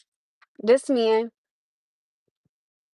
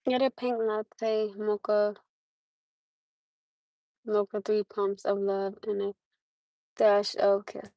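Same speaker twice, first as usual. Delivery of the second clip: dreamy; 7 dB quieter, slower than usual. Pretend. Dreamy made-up drink order.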